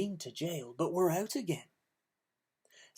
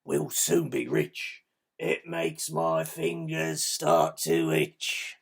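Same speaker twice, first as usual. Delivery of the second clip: greedy Len; 6 dB louder, slower than usual. Acted. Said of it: "And Len replied".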